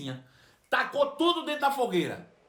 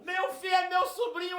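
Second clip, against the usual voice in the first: much higher, shouted repeat; joyful shout; 9 semitones higher than usual. Retold or imitated. Old aunt announcing her nephew to the bus, shouting with joy. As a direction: cry it out to everyone around. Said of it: "ela fez assim".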